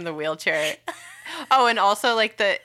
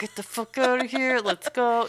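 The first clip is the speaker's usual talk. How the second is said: impatient mock yell; 7 semitones higher than usual. Impatient passenger in slow ride.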